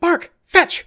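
short, high-pitched yell; high, sharp order to fetch; yelled command. Acted. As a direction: call out a command to a dog. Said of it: "Ilan yells".

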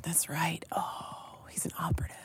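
hushed conspiratorial whisper. Acted. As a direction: whisper it like a secret. Conspiratorial aside.

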